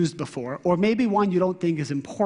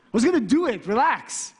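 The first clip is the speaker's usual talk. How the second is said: higher-pitched mock protest; defensive; 3 semitones higher than usual. Husband rationalizing to his wife, defensive. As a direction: brush off blame with an excuse. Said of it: "To be defensive, how?".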